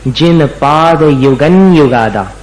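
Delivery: युगन युगादा slow, nasal 'n' held in युगन; clear anusvara. Shown as a demonstration. Teacher showing the anusvara sound, slow. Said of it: "अनुस्वार का उच्चारण संयम जैसा करना".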